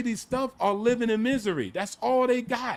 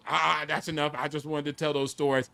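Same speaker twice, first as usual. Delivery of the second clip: ordinary talk, nothing marked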